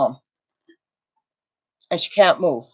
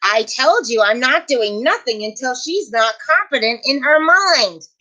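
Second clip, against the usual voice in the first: mock stubborn husband; 5 semitones higher than usual. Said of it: "I'm like".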